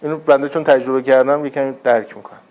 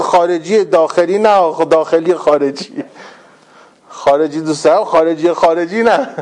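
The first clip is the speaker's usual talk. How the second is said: lightly imitated slow, muddled answer; tongue-tied. Footballer tries to name his favourite music, lightly mocked tongue-tied. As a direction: fumble slowly for the words, mock inarticulate.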